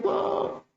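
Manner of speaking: mock squawk of a distressed chicken; imitated hen squawk. Preacher imitating a hen whose chicks the cat ate, squawking. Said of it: "dia teriak-teriak".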